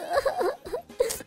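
high, soft whimpering sobs; acted sobbing. Hurt fighter after the brawl, acted sobbing. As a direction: sob in little high bursts.

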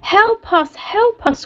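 high, pleading call for help; desperate cry. A narrator's reading. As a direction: beg to be rescued from the cages. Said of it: "cried the animals desperately".

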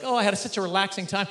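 soft, serene imitation of contented ladies; lightly voiced post-class calm; mock relaxed. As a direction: sigh it out as if blissfully unwound. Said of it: "They're just like".

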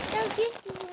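high squeaky voice; helium voice. Real, not acted. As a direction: squeak it like a chipmunk.

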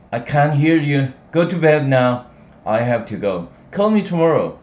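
put-on impatient young woman. Sally ending the call.

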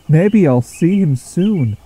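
hopeful. A narrator's reading. Rebecca hopes for a new friend.

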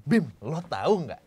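"lo tahu" stretched slowly and punched; penekanan kata. Shown as a demonstration. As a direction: punch "lo tahu" with a slow, emphatic swing. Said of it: "selalu berbicara dengan tekanan". (tekankan "lo tahu" pelan-pelan)

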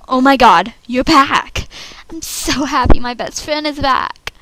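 excited. Acted. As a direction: welcome her back warmly and loud. Audition take, excited reunion.

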